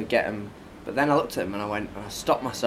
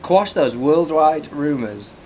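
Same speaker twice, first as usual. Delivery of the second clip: mock grand announcement; 2 semitones higher, 6 dB louder, much slower than usual. Dramatic pronouncement on rumors.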